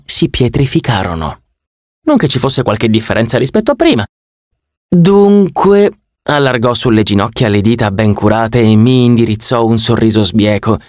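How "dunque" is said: high, louder theatrical "Dunque"; theatrical opener. Acted. Ganymede opening his pitch to Percy, high and theatrical. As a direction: announce it like a showman. God opens the conversation.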